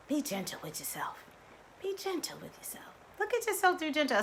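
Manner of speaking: a soothing hushed repeat; soft gentle echo. Retold or imitated. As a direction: murmur it like a kind reminder. Quoting sister's gentle advice.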